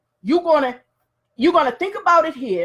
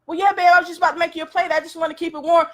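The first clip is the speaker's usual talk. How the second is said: eager wife; 4 semitones higher, much faster than usual. Acted. Wife answering grumpy husband.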